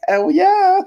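triumphant whoop. Retold or imitated. To friends over the stolen slice, a high gleeful whoop. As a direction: crow it like a victory. Himself grabbing oversized pizza.

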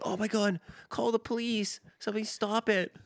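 high, squeaky mock panic; mock panicked bystander. Wedding guest pleading for someone to stop the bear, in mock panic. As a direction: play a frantic guest begging for help.

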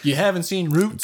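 drawn-out, mimicked incredulous question; mock disbelief. Friend imitating the two guilt-tripping him, mock disbelief. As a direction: imitate someone scandalized, dragging it out. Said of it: "Jacob, over here like".

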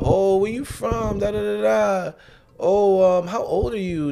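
imitating someone laying on the interest; buttering up. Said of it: "she was trying to ... butter me up".

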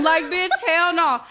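slow, loud, drawn-out refusal; loud hell no. Real, not acted. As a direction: shout it out, stretched long.

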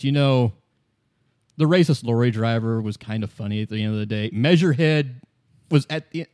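dry, unbothered delivery; deadpan. Acted. Kim deadpans to his partner about racists. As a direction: say it with a straight face. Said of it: "Kim just looks at you deadpan and says".

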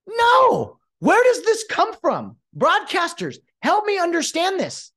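loud, high disbelief; exasperated outburst. Real, not acted. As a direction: burst out, demanding an explanation. Outburst at broadcasters' logic.

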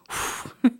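voiceless puff of air; imitated whoosh. Describing waters popping, imitated whoosh. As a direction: make a whooshing gush with the breath. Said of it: "it was like".

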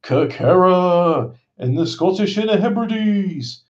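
slow eerie narrator voice; spooky voice. Acted. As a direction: draw it out like a ghost story. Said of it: "you're doing the, uh, the Futurama voice".

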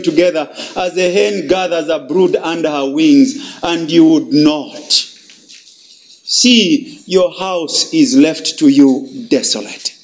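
mild grieving lament read aloud. Acted. Preacher reading Jesus' lament over Jerusalem, mildly grieving. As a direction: mourn over the city, understated. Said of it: "we read the following".

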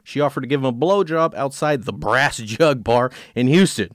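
measured true-crime read-aloud; story narration. A narrator's reading. Host reads a case to co-host, story narration.

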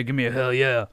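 lightly imitated wrestler's catchphrase; crowd call. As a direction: call for a crowd response, half-hearted. Acting Stone Cold's call to crowd.

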